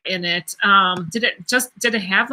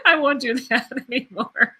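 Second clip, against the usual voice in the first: embarrassed laugh; 2 semitones higher than usual. Real, not acted. Embarrassed after kissing on air.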